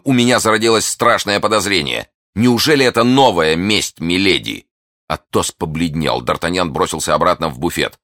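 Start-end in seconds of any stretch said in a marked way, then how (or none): 0.0-4.7 alarm. A narrator's reading. Alarmed suspicion of poisoning.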